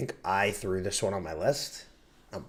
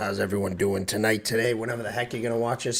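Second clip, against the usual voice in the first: hoarse sick voice; 4 dB louder, faster than usual. Real, not acted. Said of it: "what the hell is up with my voice".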